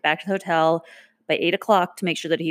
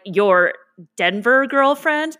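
skeptical; 5 semitones higher, 4 dB louder, much slower than usual. Retold or imitated. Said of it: "And I was like".

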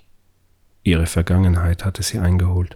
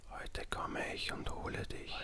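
luring spirit whisper; 23 dB quieter than usual. Acted. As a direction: breathe it like a bodiless hiss. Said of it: "flüsterte die Stimme in ihrem Kopf".

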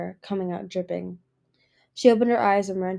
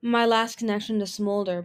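sad. Acted. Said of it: "Palm thought sadly".

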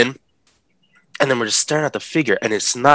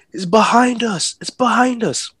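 scared cousin; 13 semitones higher than usual. Retold or imitated. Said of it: "He's like".

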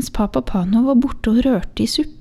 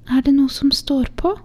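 cautiously; 6 semitones higher than usual. Acted. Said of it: "spurte moren forsiktig".

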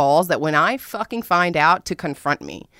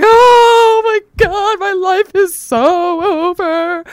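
slow, high, hammed-up sobbing wail; dramatic crying; 13 semitones higher, 9 dB louder, slower than usual. Crying on her bed over the breakup, a hammed-up wail. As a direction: melodramatic heartbreak, wailing it out. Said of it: "dramatically, dramatic as fuck".

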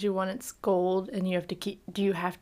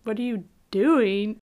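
mock shock. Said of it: "she was more shocked".

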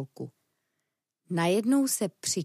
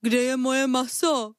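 man crying out, louder and a bit higher; desperate cry; 5 semitones higher, 4 dB louder than usual. Acted. Man at the table finds his meat gone, desperate cry. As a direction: wail for the stolen meat. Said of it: "zoufale vykřikl".

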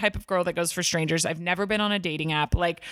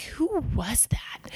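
confused; 4 semitones higher, much slower than usual. Retold or imitated. Waking up confused, asking.

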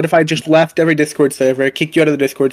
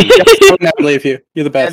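mock Jackson voice; 4 dB louder than usual. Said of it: "I'm Jackson".

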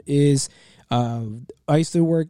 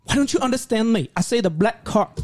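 put-on higher, exasperated Asian-accented customer; imitated Asian accent; 7 semitones higher than usual. Misunderstood customer to store clerk, mock Asian accent. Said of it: "I make the accent pretty well".

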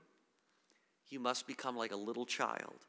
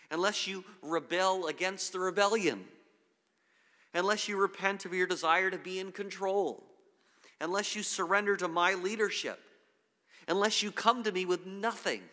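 higher, louder, building list of conditions; raised, emphatic preaching voice; insistent demand; 6 semitones higher, 5 dB louder than usual. Acted. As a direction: press each condition like an urgent preacher. Voicing Jesus's demands to followers.

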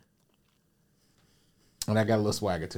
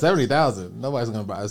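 raised, disbelieving imitation of the clerk; incredulous repeat; 6 dB louder, faster than usual. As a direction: imitate a clerk scoffing at the offer. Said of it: "I can tell her voice".

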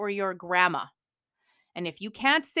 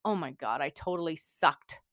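put-on mopey kid; 5 semitones lower, 4 dB quieter than usual. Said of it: "these exact words were coming out of kids' mouths".

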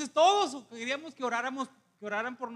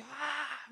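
higher, soft drawn-out "aah"; imitated praying groan; 4 semitones higher, 6 dB quieter than usual. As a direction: mimic the pastor groaning in prayer. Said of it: "y hacía".

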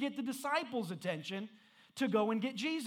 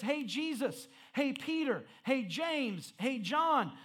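mock calling for attention, raised pitch; speaking up; 4 semitones higher, slower than usual. Woman trying to get Jesus' attention through the disciples, mock calling out. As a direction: call each one in turn, imitating a persistent woman. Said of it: "she speaks up again".

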